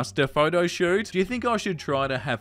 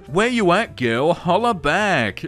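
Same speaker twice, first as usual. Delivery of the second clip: mock street slang voice. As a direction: play a cocky texter badly. Reading slangy message mock-gangster.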